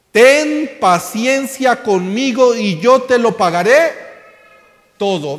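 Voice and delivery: earnest plea, voice lifting on "pagaré"; pleading servant. Acted. Preacher reads the servant begging his fellow servant, pleading. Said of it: "le rogaba diciendo".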